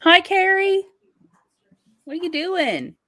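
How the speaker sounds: high, sing-song pet voice. Real, not acted. Greeting Carrie the pet, high sweet baby talk.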